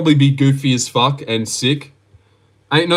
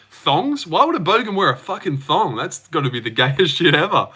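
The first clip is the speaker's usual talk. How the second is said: mock incredulity. Streamer acts out viewers misreading thongs, mock incredulous. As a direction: play the baffled misunderstanding for laughs. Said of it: "if you guys didn't understand".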